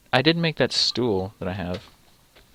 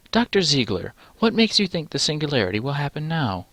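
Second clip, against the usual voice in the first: higher-pitched polite host; lightly voiced interviewer posing a question; podcast interviewer; 5 semitones higher than usual.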